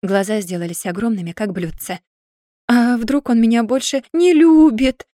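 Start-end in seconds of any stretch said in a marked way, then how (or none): 2.7-5.1 higher, louder, slow tearful cry; a hammed-up wail of sudden doubt; bursting into tears. A narrator's reading. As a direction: let the fear break into sobbing. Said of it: "заревела с новой силой".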